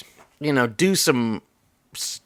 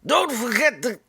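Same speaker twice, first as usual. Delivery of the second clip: put-on old Jewish guy voice; 8 semitones higher than usual. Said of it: "That's sort of like old Jewish guy".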